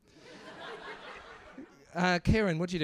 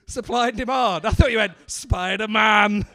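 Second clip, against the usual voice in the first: louder, hammed-up Northern Irish accent; 6 dB louder than usual. Comedian mishearing supply and demand, mock Northern Irish accent. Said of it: "That's my Northern Irish accent".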